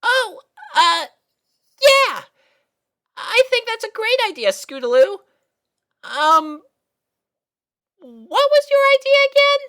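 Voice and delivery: very high nervous bluff with a little laugh; flustered cover-up. Acted. Sweetie Belle bluffing to Scootaloo, flustered and high. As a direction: fake enthusiasm to hide you weren't listening.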